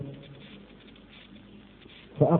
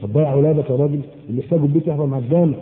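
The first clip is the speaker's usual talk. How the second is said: quick mocking quote; faster than usual. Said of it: "مش كده؟".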